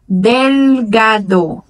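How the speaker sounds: delgado whispered, with a clear L touching the palate; Spanish pronunciation. Shown as a demonstration. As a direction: say delgado in Spanish, L fully sounded. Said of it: "vai ser delgado a pronúncia".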